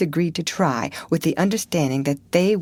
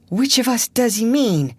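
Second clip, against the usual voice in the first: higher, scared whisper; frightened gasped whisper; 6 semitones higher, 4 dB louder than usual. Acted. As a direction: gasp it out in terror under your breath. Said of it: "gasped Huckleberry".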